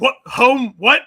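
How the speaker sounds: overacted anime dub. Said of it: "and he's like".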